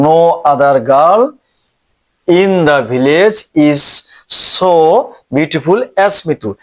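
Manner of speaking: very slow, word by word; slow dictation. Shown as a demonstration. Teacher dictating new sentence to students, very slow. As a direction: read it out for copying.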